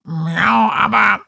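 high, loud cat voice objecting; protesting cat voice. Acted.

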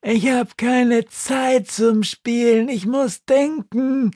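squeaky high, slow little snail. Acted. Snail asking the crow, high and dreamy. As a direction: ask it like a dim tiny snail.

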